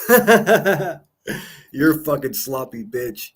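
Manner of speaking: slow, laughing through the words; laughing insult. Real, not acted. Streamer taunting Rebecca on stream, slow laughing jeer. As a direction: cackle while you taunt her.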